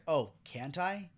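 slow, mock-bitchy challenge; bitchy retort. Wanda challenging Vision in a retold fight, slow and bitchy. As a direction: draw out a catty comeback, imitating her. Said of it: "she says it really bitchy".

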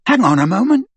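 high, loud interruption; sharply. A narrator's reading. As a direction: cut in sharply to halt them. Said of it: "said Ron sharply".

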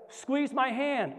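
high, slow, emphatic urging; urgent retold command. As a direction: urge it, stretching each word. Retold urgent command during healing.

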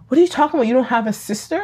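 lightly voiced questioning mother, pitch rising at the end; retold baffled mother. Mother answers daughter's talk of a sister, retold bafflement. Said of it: "and the mother goes".

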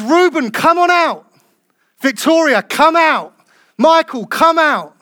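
loud, high call into the tomb. Acted. Jesus calling Louis out of the tomb, loud and high. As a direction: summon him out with a ringing call.

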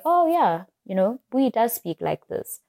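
high-pitched "oh yeah", settling down; lightly acted friend realizing it; imagined friend's recognition. Imagined friend recognizing her voice, lightly acted realization. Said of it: "I want my friends who listen to this to say".

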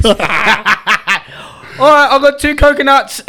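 teasing the New Zealanders, mock confusion; mock dim bloke. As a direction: play the slow-witted gambler. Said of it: "They're like".

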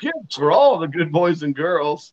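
slow, creepy sweet voice; creepy slow gift-giver. Retold or imitated. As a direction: lure them in slowly. Creepy monk luring kids.

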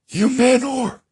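very high, loud voice on an in-breath; Siri voice impression. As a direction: squeal it inward as a bad Siri imitation. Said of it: "he does this voice".

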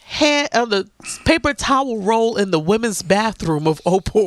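slow, low, deliberate confession; with conviction. Real, not acted. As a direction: own up to it slowly, with total conviction. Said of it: "You said it with such conviction".

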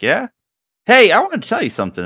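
high, loud and quick teasing voice. Retold or imitated. Older woman at auto shop teases passer-by, high and quick. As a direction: tease him with a secret, quickly. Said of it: "And she's like".

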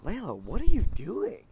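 high, loud mock-surprised dad; hammed-up parental disbelief; dad calling out. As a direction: play the father catching his toddler mid-tantrum. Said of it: "I would just look at her and be like".

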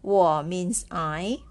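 我 means I said slowly; slow model. Shown as a demonstration. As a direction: stretch it out for beginners. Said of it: "The same as 我".

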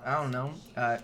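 talking around a lollipop; words shaped by a lollipop in the mouth; sucking a lollipop. Real, not acted. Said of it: "I've been sucking on a lollipop".

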